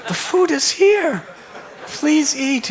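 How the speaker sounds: put-on high child's plea broken by the teller's own laughter; can't keep a straight face while voicing the boy; high, loud childlike insistence cut with laughs; laughing through it. Boy's plea breaks into laughter.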